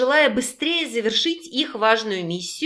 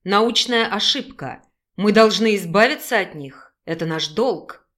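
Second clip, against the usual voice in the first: a hint of a lower male voice; lightly voiced young man; 3 semitones lower than usual. Male character voice.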